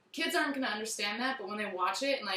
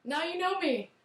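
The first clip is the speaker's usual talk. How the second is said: character voice; 7 semitones higher than usual. Retold or imitated. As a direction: coo it like a mysterious imaginary friend. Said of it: "'cause he's like".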